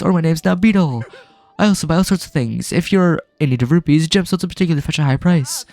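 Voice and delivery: lightly voiced cheerful merchant; Beetle voice.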